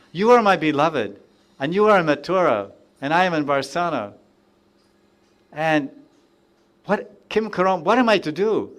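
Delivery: a hint of a bewildered, grieving devotee; mild crying out. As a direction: call out to the beloved in gentle despair. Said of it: "And he's crying out".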